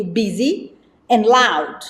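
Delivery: usual speaking voice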